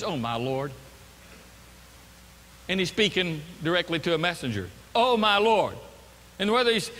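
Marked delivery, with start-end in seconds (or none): 0.0-0.7 low, weary frustration; frustrated. Acted. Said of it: "you add to that frustration". 4.9-5.8 louder, discontented outburst; frustrated. Acted. Gideon speaking directly to a messenger, frustrated outburst. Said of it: "this voice of discontent and this voice of frustration".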